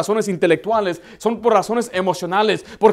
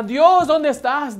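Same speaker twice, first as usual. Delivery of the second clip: slow, higher, drawn-out mocking call; 6 semitones higher, much slower than usual. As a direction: call out slowly to the sky in mockery. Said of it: "empezaba a mirar por la ventana". (llamada burlona, lenta y aguda)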